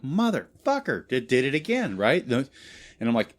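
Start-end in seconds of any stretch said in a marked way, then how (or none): 0.0-2.0 exasperated curse. Retold or imitated.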